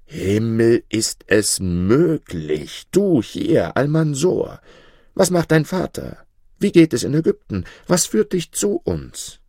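high, amazed call of recognition; astonished exclamation. A narrator's reading. Old soldier greets Almansor, calling out, astonished. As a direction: cry out in joyful surprise at the boy. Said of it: "rief nach kurzer Überlegung".

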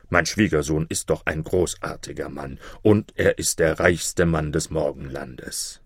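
a hint of a proud, low-voiced king; contented king. King praises son-in-law to vizier, lightly proud. King's voice in told story.

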